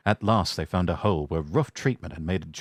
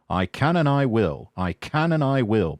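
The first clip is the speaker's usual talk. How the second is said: determined puffing; 3 semitones higher than usual. Acted. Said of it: "puffed James".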